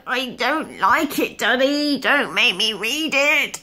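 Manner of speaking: slow, high tearful pleading; tearful whine. Retold or imitated. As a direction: beg daddy, voice starting to cry. Child pleading against reading.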